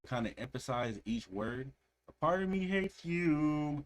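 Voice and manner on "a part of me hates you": high, slow, pointed imitation of the vocal; imitating deep sharp delivery. Reacting to a song, imitating the singer's sharp line. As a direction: copy the sharp sung line, drawn out. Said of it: "It got, got deep and sharp".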